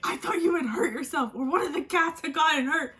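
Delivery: lightly voiced partner scolding her; mildly annoyed partner. Partner scolding her after the scare, mildly annoyed. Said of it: "And he was pissed at me".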